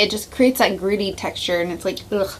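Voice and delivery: talking while chewing; words round a mouthful; mouth full. Real, not acted. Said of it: "I'm chewing on sugar".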